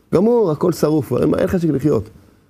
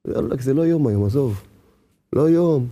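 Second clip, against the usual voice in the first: resigned despair; 2 semitones lower than usual. Pretend. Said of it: "אם היה חושב ככה".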